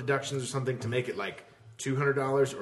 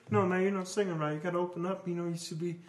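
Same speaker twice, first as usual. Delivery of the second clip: higher, softer lecturing voice; opera friend; 3 semitones higher, 4 dB quieter, faster than usual. Retold or imitated. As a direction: coach someone on singing like the odd friend. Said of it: "He's like".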